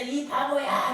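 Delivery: mild mock yell, last vowel drawn out; retold calling out. Boy calling toward the mountain, mild mock yell. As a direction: imitate a child calling out, without full volume. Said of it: "라고 외쳤대요".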